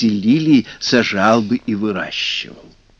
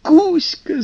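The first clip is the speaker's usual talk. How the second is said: shouting. Acted. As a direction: cry the name out. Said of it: "закричали русалки".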